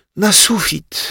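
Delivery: very high, sighing delivery. A girl lying on the floor answers her friend's question, sighing. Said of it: "westchnęła Zosia".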